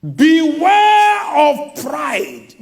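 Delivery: a slow booming preacher's cry; preaching shout. Real, not acted. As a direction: thunder the warning slowly from the pulpit. Preacher warning congregation.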